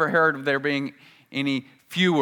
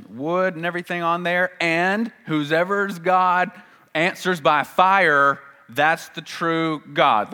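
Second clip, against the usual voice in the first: bold Elijah challenge; 5 semitones higher, 6 dB louder than usual. Acted. Elijah voiced challenging prophets.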